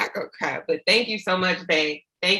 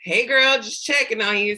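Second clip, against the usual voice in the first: bright text greeting; 4 semitones higher, 3 dB louder than usual. Retold or imitated. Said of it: "your text messages".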